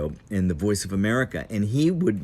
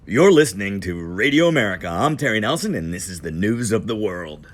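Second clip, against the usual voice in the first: radio announcer voice; 5 dB louder than usual. Retold or imitated. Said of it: "this voice that was so different".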